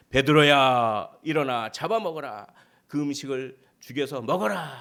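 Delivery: loud, drawn-out summons; voice from heaven. Acted. A voice in the vision commands Peter to eat, booming like a voice from heaven. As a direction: boom out a command, stretching the name. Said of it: "소리가 있는데".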